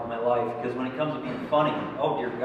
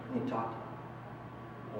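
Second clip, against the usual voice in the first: slow, much softer, almost whispered; sad quiet confession; 7 semitones lower, 15 dB quieter, slower than usual. Retold or imitated. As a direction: murmur it slowly like a guilty kid. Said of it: "I have to sadly walk out there and say".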